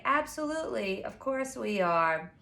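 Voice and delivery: placating a customer, lightly mocked; falsely reassuring bakery staff. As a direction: promise it sweetly, knowing it's untrue. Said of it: "They're like".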